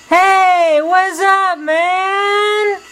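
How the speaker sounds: put-on very high, surfer-dude Valley accent. Male lion greeting newcomer in Valley accent. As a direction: greet him loose and laid-back in a Valley accent. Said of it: "in the Los Angeles Valley accent".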